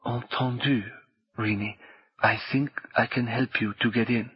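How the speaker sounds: soft, kind reassurance; hushed sympathetic promise. Acted. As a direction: gently offer help. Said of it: "The mystery woman's voice was sympathetic".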